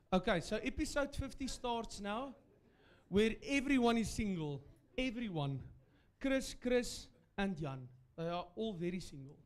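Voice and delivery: put-on broad Afrikaans accent, storyteller. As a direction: read it in a thick Afrikaans accent. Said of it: "I'm already reading it in my perfect Afrikaans accent".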